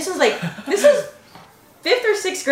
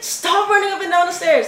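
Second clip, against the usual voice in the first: mildly raised, higher mock scolding; retold anger; 5 semitones higher than usual. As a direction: snap at a friend, playfully retold. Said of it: "I was mad".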